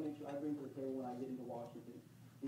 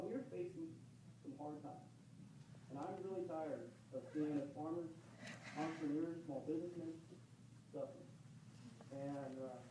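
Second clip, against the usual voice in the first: choked up; 6 dB quieter than usual. Real, not acted. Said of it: "getting, getting, getting emotional".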